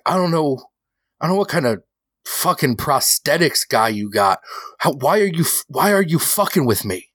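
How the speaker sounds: mild mock anger, pushing back; angry accusation. Rocco confronting Johnny about the prosthetics, mildly heated.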